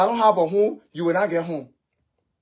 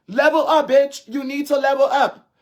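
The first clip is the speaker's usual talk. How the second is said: angry taunt; 4 semitones higher than usual. Real, not acted. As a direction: spit it out at her. Angry rant at a rival.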